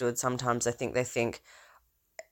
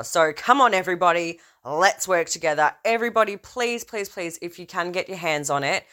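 eager rallying plea; 3 semitones higher than usual. Real, not acted. Rallying viewers to find book.

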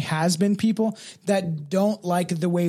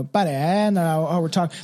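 mock Canadian accent; 2 semitones lower than usual. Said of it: "like South Park does".

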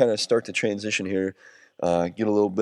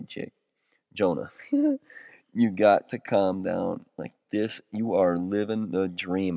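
calming himself; 3 semitones lower, slower than usual. Retold or imitated. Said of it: "I say".

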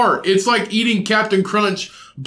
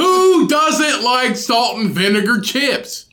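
indignant; 5 semitones higher, slower than usual. Real, not acted. Outraged at chip dislike.

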